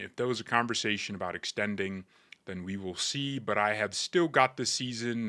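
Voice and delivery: lightly imitated English footballer accent; a hint of a calm English footballer's accent; Harry Kane accent. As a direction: read the quote in a faint English accent. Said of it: "let me read it in his accent".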